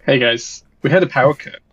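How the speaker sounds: tinny robot voice, bad mic. Real, not acted. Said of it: "J robot voice".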